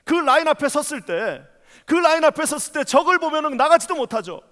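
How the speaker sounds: impassioned sermon, rising to ringing peaks; preaching. Acted. Pastor preaching fervently to the congregation. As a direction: preach it with full fervour to the church.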